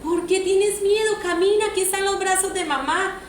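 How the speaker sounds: lightly voiced mom encouraging a toddler; mother urging her baby to walk, gently coaxing. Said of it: "Como cuando le dices a tu bebé".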